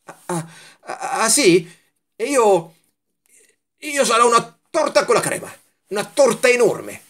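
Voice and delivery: put-on high childlike voice topping the other's boast; eager comeback. A narrator's reading. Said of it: "ma poi rilanciò".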